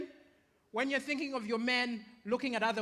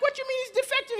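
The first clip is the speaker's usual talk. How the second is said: surprised question; 11 semitones higher, much faster than usual. Retold or imitated. Surprised self.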